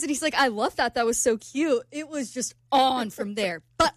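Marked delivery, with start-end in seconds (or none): 0.4-1.8 put-on light amateur British accent. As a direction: imitate a charmed British man. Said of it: "You have a terrible British accent".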